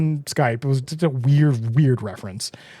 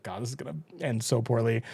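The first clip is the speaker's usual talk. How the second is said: softer, quick doom mutter; muttered aside; 3 semitones lower, 9 dB quieter, faster than usual. Retold or imitated. A viewer dreading what Hook's lie will bring, muttering. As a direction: mutter it under your breath.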